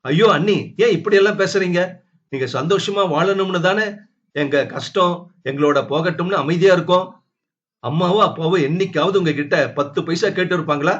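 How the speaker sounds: put-on hurt girl begging her not to talk like that; pleading young woman.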